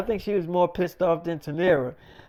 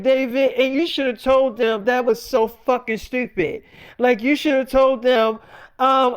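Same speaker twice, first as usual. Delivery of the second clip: acted-out exasperated wife, pitched up; retold angry scolding; 4 semitones higher than usual. Wife telling husband what he should have said, annoyed. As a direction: scold him as the fed-up wife, higher.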